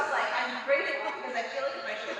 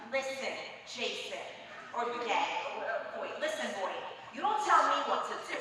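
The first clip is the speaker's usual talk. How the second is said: put-on New York accent; 3 semitones higher, 4 dB louder than usual. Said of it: "with a very New York accent".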